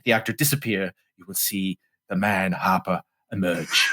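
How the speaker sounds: lightly mocking an earnest thespian; a hint of grand actorly self-importance; affected method actor. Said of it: "It's the most affected".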